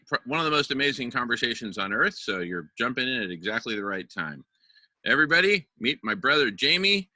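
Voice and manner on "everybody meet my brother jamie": excited introduction. Real, not acted. Host introduces guest to everyone.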